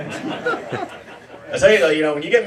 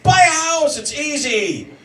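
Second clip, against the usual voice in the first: a hint of a preachy rich friend; insistent mock bro; pushy rich guy; 5 semitones higher than usual. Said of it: "And they're like".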